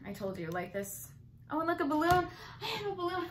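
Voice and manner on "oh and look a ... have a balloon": put-on high childlike voice; giddy child showing off a balloon; excited child. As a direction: squeal like a little kid with a balloon.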